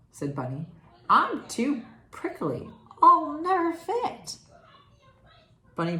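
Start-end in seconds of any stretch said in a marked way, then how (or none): 1.1-4.4 higher, louder, slowing fretful wail; a comically anxious porcupine; worried porcupine. Acted. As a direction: whine that you'll never fit. Porcupine worried about fitting.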